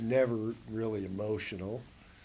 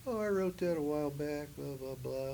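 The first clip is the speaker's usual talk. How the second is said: casual friend; 5 semitones higher than usual. Retold or imitated. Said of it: "He'd go".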